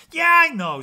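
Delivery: high, loud, impatient reply; frantic interjection. A narrator's reading. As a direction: cut in urgently. Jack urgently interrupts his story.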